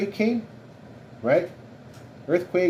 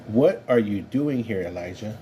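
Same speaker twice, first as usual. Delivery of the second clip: calm reassuring voice; 3 semitones lower than usual. Acted. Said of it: "a calm, re-, reassuring voice".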